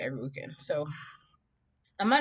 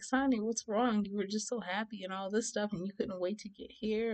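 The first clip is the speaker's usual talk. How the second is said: higher, softened imitation of worried relatives; concerned family; 4 semitones higher, 4 dB quieter than usual. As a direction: coax her to say what's wrong.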